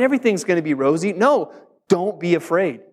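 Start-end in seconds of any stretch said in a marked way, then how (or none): 0.0-1.1 quick, breezy false comfort; mock cheery. Pastor mocking a breezy promise of an easy life, fast and airy. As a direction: toss it off lightly to mock the idea. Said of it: "So it's not".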